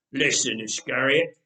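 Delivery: low menacing growl. Acted. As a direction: threaten him, voice pressed low. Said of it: "the one with the knife growled".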